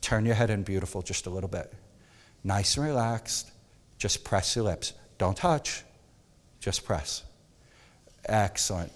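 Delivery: brought right down, soft and low, coaxing the model; soft seductive direction. Shown as a demonstration. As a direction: murmur the posing cues to set a seductive mood. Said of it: "when I want that soft, seductive moment ... bring it down".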